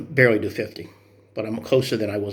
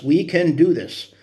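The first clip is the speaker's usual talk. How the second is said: rallying cry; 5 semitones higher, 4 dB louder, slower than usual. Real, not acted. Repeated louder, slower for emphasis.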